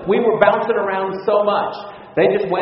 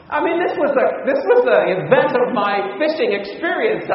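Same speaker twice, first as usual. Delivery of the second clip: laughing through the words at the big catch; laughing while telling; 5 semitones higher than usual. Real, not acted. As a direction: chuckle it out, delighted by the memory. Gleeful fishing story laughter.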